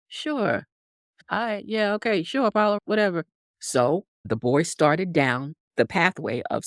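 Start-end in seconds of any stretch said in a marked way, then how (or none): 0.1-3.3 a touch higher, offhand yes-yes; dismissive horse. Retold or imitated. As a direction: brush him off with fake agreement. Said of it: "the horse was like".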